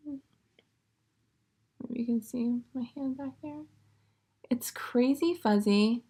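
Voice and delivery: breathy hushed aside about the fuzz; whisper. Real, not acted. Knitter showing her yarn to viewers, whispering. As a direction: drop to a whisper, marveling at the yarn. Showing the yarn's halo close up.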